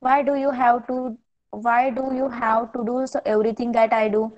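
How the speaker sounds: very slow, word by word English reading. Shown as a demonstration. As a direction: read it out slowly for young learners. Slow read of sister's complaint.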